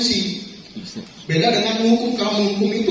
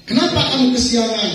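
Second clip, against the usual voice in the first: stern scolding; 4 semitones higher than usual. Acted. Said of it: "ada penekanan gitu".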